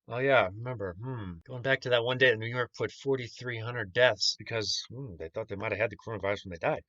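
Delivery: a sly, lightly put-on aside; mock innocent recollection. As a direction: play dumb as if half-remembering. Sarcastic aside about New York deaths.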